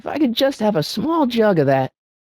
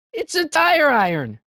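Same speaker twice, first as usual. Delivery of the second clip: item fanfare; 8 semitones higher, slower than usual. Acted. Triumphant item pickup.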